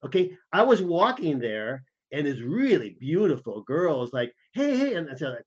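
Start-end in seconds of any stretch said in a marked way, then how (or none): 4.5-4.9 sudden high-pitched hail, pitched well up; calling out. Retold or imitated. A girl on the street calling out to a passing tourist. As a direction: sing out to get a stranger's attention.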